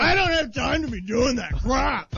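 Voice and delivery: high, mock mouthful voice; mouth full. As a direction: play a messy eater talking through food. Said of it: "always have to tell him".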